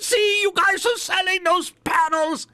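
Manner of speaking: put-on very high, whiny old Jewish man accent; angry old Jewish man accent. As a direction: accuse him in a squeaky old-man accent. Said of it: "It's an angry, uh, old Jewish guy".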